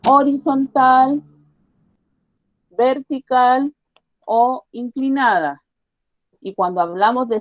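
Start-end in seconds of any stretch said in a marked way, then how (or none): 0.1-5.6 slow recap. Shown as a demonstration. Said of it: "A ver, vuelvo a recordar".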